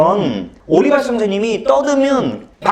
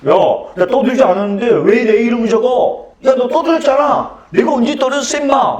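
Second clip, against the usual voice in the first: raised, higher indignant comeback; mock protest; 4 semitones higher than usual. Imagined self confronting the classmate, indignant. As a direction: push back hard at the classmate. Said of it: "지금 같으면 제가 이렇게 얘기해줘".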